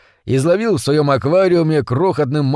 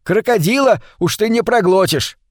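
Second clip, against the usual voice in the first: higher-pitched scornful retort; mild angry shout; 4 semitones higher than usual. Acted. Митя mocks his friend with crocodiles, mild angry shout. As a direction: start high, jeering at him in exasperation. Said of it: "крикнул Митя".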